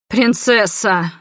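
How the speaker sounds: slow, drawn-out call of despair; anguished cry. Acted. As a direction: cry out her title in anguish. Cry from crowd to condemned princess.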